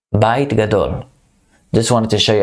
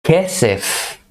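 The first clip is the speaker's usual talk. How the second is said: Kesef said higher, falling at the end; higher model word; 6 semitones higher than usual. Shown as a demonstration. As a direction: lift the voice on Kesef. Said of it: "Kesef is money".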